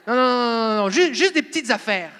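hurriedly head them off, play-acting alarm; acted protest. Believer stopping God's heavy machinery from coming in, mock protest.

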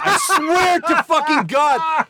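high, slow, laughing through the words; can barely get it out for laughing. Real, not acted. Cracking up while telling story.

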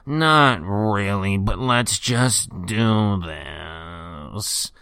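very slow, dragging reluctant reply; glum Jake impression. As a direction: mope through it like Jake before the pod. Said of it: "And I'm like, "Jake, is everything all right?".

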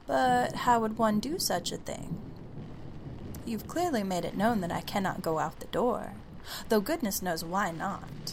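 put-on polite, prissy young girl; prim girl voice. Girl plays along primly.

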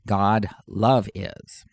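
slow God love is, love set apart; stress on love. Shown as a demonstration. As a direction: draw out love for emphasis. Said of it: "if you keep the Greek word order".

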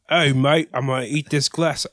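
mock Australian, half convincing; attempted Australian accent. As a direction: practise a shaky-grasp Australian accent. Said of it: "in Australian".

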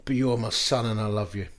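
a father's gentle reassurance to his son; gentle still whisper. Retold or imitated. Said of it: "the still inner whisper of God".

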